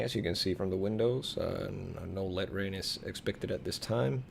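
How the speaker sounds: smooth captain cabin announcement; calm pilot PA voice; airline pilot voice. Pretend. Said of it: "That's a perfect pilot voice".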